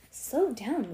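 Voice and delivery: ordinary delivery, nothing marked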